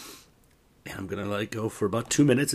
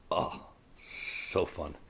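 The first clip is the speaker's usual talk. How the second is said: whispered; 5 semitones lower, 7 dB quieter, much slower than usual. Real, not acted. Unvoiced aside.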